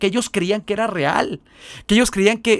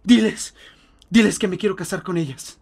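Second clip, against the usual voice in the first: tearful plea; 5 semitones higher than usual. Retold or imitated. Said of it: "empieza a llorar y dice".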